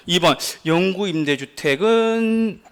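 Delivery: slow, drawn-out mock reading; plodding reading. Teacher shows how doubting students reread options, slow plodding reading. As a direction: mimic a student reading slowly, word by word. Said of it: "읽어도 이렇게 읽어".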